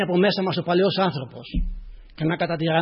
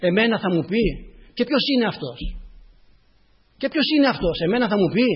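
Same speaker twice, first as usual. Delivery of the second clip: mock offended pride, pitched up; indignant retort; 6 semitones higher, 6 dB louder than usual. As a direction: act out a bristling ego. Acts out the proud ego's retort.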